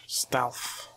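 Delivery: breathy stealth whisper; sneaky whisper. Pretend. Sneaking in game.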